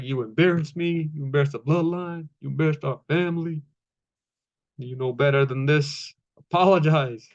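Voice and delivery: imitating a rising, angrier scold; half-acted intense demand to apologize; mock pissed off. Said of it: "started getting more intense and more pissed off".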